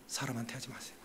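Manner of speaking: soft plea. Real, not acted. Pleading warning to the congregation.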